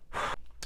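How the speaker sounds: long exhale to calm down; heavy sigh. Real, not acted. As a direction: blow out a steadying breath. Pauses to calm herself down.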